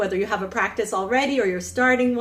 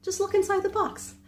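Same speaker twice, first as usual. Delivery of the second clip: insistent man; 10 semitones higher, 4 dB quieter than usual. Retold or imitated. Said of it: "And the man goes".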